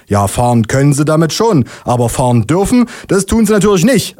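officious know-it-all explanation; expert explaining. Acted. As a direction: lecture like a self-assured expert, pitch climbing. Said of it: "erklärt der Polizist fachmännisch".

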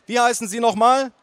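bellowing aunt. Acted. Aunt to nephew's companion, bellowing. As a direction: demand it loudly as the aunt. Loud aunt questions girlfriend.

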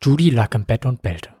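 getragen erzählt, wie ein Groschenroman; dramatische Romanerzählung. A narrator's reading. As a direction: lies es wie eine schmalzige Fortsetzungsgeschichte. Erzählstimme geht weiter. (pathetische Erzählstimme)

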